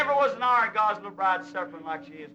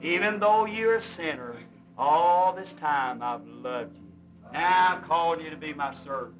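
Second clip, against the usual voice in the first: sweet voice; 4 semitones lower than usual. Retold or imitated. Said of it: "here come that little sweet voice says".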